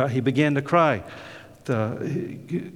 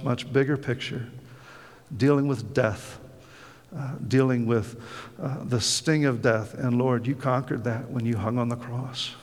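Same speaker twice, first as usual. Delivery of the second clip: bow heads and speak to the Lord, hushed and earnest; prayer; 2 semitones lower than usual. Acted. Pastor praying for the congregation, hushed and earnest.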